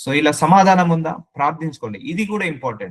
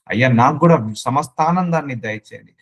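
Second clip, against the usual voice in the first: sample prayer. Shown as a demonstration. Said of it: "Use these words in your prayer".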